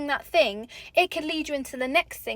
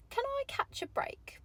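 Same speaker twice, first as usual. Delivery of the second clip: whispered plea; 12 semitones higher, 12 dB quieter than usual. Retold or imitated. Exasperated inner plea.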